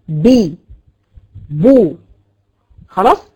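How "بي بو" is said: بي then بو, lips opening on each vowel; vowel demo. Shown as a demonstration. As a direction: open the lips cleanly on بي and بو. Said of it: "تباعد ما بين طرفي عضو النطق". (نطق بي وبو بانفتاح الشفتين)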